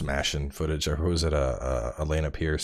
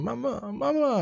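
imitating toddler crying. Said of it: "he pops up just screaming".

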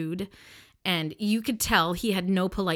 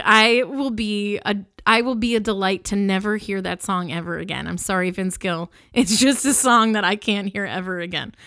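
laughing mock lament; 6 dB louder than usual. Real, not acted. Mock-sing declaring song banned.

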